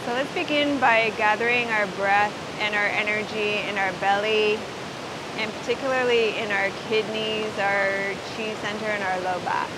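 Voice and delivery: low, calm guided breathing cue; guided meditation. Acted. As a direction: ease them into the breath.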